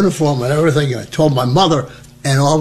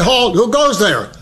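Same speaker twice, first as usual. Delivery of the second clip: correct sentry challenge; 7 semitones higher than usual. Retold or imitated. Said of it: "you're supposed to say".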